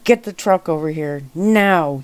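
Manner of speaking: a mild yell that peaks on the last word. Acted. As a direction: call for the truck, punching now. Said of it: "he yelled".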